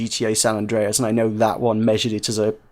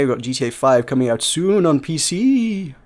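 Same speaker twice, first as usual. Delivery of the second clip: spooky voice. Real, not acted. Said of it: "I don't know why I did that in a spooky voice".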